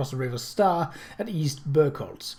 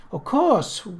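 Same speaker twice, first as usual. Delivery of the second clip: sighed; 10 semitones higher than usual. A narrator's reading. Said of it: "Widow Jessup sighed".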